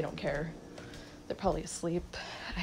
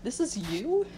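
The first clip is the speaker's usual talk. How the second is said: higher-pitched incredulous question; mock disbelief; 5 semitones higher than usual. Someone shown this years later, mock disbelief. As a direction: imitate someone taken aback. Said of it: "be like".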